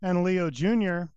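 bright host introducing a contestant; game show host voice. Pretend. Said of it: "I've been working on my game show host voice".

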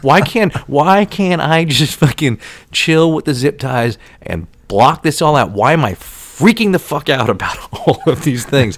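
mildly worked-up rant at oneself; losing it. Retold or imitated. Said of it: "I'm losing my shit".

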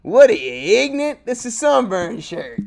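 hammed-up indignant jab; mock outrage. Mocking the shirt guy.

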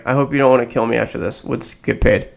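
talking while chewing seeds; cracking sunflower seeds. Real, not acted. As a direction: mouth full of sunflower seeds. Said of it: "Sorry, I was eating sunflower seeds".

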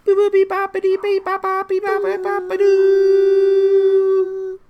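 high, loud beeping robot jingle; toy robot voice. Acted. Robot jingle for Mariners update.

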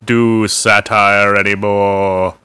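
low, slow mock-solemn complaint; ponderous put-on voice of an all-seeing being; Watcher's voice. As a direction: drag it out low, mock-aggrieved.

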